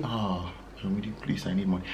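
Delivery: hushed, very soft pleading beg. Imitating a borrower asking Ayomide for money: imitating pleading borrower. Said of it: "You say".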